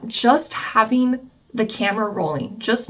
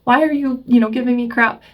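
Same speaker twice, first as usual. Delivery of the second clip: higher and louder, indignant self-justifying protest; defensive and indignant; 4 semitones higher, 4 dB louder than usual. Retold or imitated. Partner mid-fight insisting they're not yelling, indignant. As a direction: argue back, sure you're the calm one.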